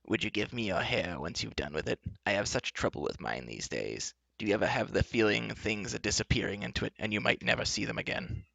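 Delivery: soft, rambling, coaxing enchantress; lightly voiced enchantress, soft and kindly; kind, cajoling. Enchantress asking for the girl's hair, cajoling. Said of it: "said the enchantress in a kind".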